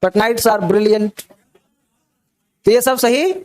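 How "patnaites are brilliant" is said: very slow, word by word; slow dictation. Shown as a demonstration. Teacher dictating example sentences to students, very slowly. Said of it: "example sentences".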